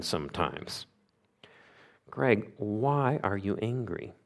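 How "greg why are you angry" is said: soft, slow, searching question; gentle questioning. Acted. God asking the preacher about his anger, gently. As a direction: ask it softly and patiently.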